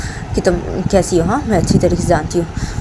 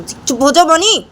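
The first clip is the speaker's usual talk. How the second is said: much higher, slow, louder "shut up"; mock angry hush; 11 semitones higher, 4 dB louder, slower than usual. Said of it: "तो राम".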